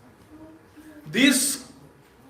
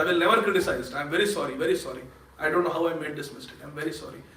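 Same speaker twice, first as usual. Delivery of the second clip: much softer, contrite plea; humble apology; 6 semitones lower, 8 dB quieter, much faster than usual. Acted. Pundarik begs Jagannath's pardon, softly and contritely. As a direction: shrink into a quiet, sorry apology.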